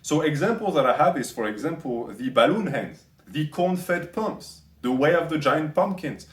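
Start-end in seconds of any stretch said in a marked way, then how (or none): 3.3-4.6 drawn-out corn-fed pumps; slow, drawn out. Retold or imitated. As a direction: stretch it slowly. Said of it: "sound like anime character special attacks".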